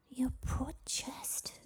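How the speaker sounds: slow, high, whispery sympathy; soft, aghast half-whisper; hushed pity. Acted. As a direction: wince softly for someone's wound. Girl pities the wounded dragon.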